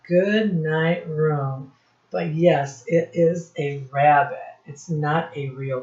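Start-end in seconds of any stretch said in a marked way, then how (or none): 0.1-1.7 put-on slow, gentle child's goodnight; child's line, read slowly. Teacher voicing the bunny child saying goodnight, slow. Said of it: "The child right here is saying".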